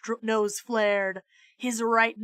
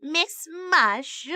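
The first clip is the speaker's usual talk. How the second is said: cheerful lady voice; 6 semitones higher than usual. Acted. Voice through the door.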